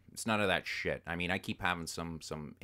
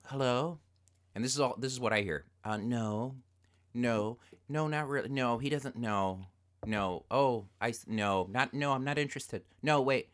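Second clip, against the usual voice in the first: lightly voiced wife on the phone, higher; imitating wife; 4 semitones higher than usual. Wife politely refusing a telemarketer, mock higher voice. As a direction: mimic her fumbling polite refusals. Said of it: "pick up the phone and go".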